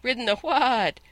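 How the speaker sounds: high, loud horsey whinny on WHAT; angry talking horse, neighing the words; neighing retort. A narrator's reading. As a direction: let "what" break into an indignant neigh. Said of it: "came out as a sort of a neigh".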